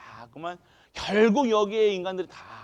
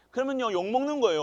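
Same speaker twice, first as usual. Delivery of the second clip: ordinary talk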